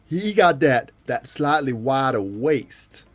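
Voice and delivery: American bodybuilder impression, stretched key words; animated, swinging pitch, mimicking a veteran champion; Lee Haney. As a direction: hold forth, punching and drawing out words. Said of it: "Oh, Lee Haney impression".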